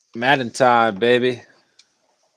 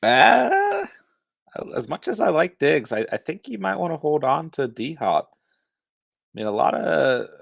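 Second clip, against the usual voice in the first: much higher, louder mock Texas accent; 6 semitones higher, 4 dB louder than usual. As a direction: ham up a Texas twang, pitched way up. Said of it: "That's him doing a Texas accent".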